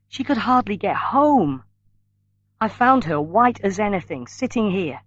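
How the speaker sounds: lightly tearful, upset for her mother. A narrator's reading. Annie telling Paul how ill mother was, mildly tearful. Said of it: "said Annie in a tearful voice".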